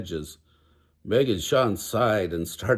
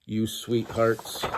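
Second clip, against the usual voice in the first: smiling; slower than usual. Acted.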